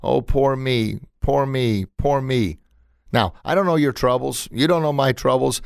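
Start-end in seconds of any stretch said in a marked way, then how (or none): 0.0-2.6 whiny self-pitying sigh on each poor me; mock a sulking victim; hammed-up poor-me moan; mock pity party. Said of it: "you start having a pity party".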